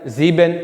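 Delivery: ज़ीबेन with a straight long "ee"; German pronunciation. Shown as a demonstration. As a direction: model ज़ीबेन as "zee-ben". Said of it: "वो सीधी सी आवाज़ निकलती है".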